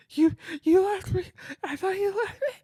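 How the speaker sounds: put-on high whiny little kid voice; mock scared kid. Kid to his mom, high whiny pleading child. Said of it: "And I'm like".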